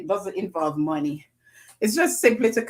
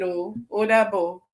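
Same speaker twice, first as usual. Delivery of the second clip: ordinary talk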